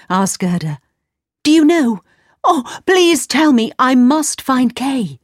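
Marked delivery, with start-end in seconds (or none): 1.4-5.2 put-on high, louder imploring girl; urgent pleading. A narrator's reading. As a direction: beg for news, slowing at the end. Gerda pleads for news.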